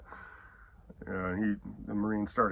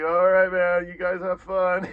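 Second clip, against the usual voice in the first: much louder, slow, higher send-off; unbothered Marine; 7 semitones higher, 9 dB louder, slower than usual. Retold or imitated. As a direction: wave them off like a calm Marine. Marine leaving, retold.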